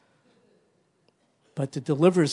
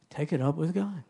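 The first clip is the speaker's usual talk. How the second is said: laughing repeat; 2 semitones higher than usual. Acted.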